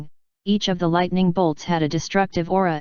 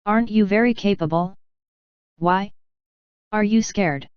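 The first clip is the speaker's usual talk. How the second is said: mocking; 2 semitones higher than usual. A narrator's reading. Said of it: "Ye Feng looked at ... and mocked".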